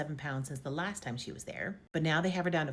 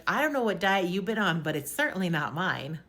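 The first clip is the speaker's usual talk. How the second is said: sarcastic retort; 6 dB louder than usual. Retold or imitated. Doctor rebukes her diet claim.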